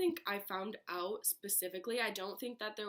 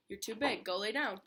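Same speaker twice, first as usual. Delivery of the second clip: louder, firm order to the pet; firm command to dog; 2 semitones higher, 6 dB louder than usual. Real, not acted. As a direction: tell the dog off firmly. Ordering her dog to lie down.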